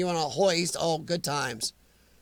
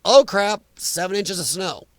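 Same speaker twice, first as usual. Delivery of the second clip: mock exclaim; 4 dB louder than usual. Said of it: "it's like".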